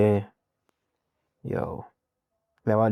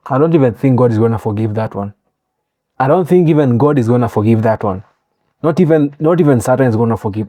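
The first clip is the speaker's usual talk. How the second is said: outraged rant; 5 dB louder, much faster than usual. Real, not acted.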